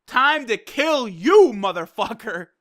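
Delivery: slow down and punch the kill line; lightly acted villain threat; mock menacing threat. Kale threatens Kabe in a retold anime scene, mock menace.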